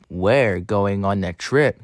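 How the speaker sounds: slow, lightly voiced scheming engine; Diesel. Engine taking stolen coaches away, slow and sly. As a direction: drag it out a little, slyly. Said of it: "said Diesel".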